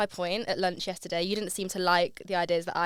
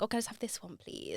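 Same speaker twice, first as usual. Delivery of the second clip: timid request; 12 dB quieter than usual. Retold or imitated. Timid order to grumpy waiter.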